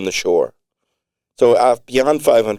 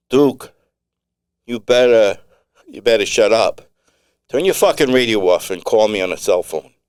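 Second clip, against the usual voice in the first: angry threat; 2 semitones higher than usual. Acted. Angry radio threat from Duke.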